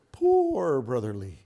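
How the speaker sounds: a slow, sighing mock lament in a put-on voice; imitating Brother Lee. Preacher imitating his old teacher for the church, with a sighing lament. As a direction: sigh it out like the old minister, half laughing. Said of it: "like this".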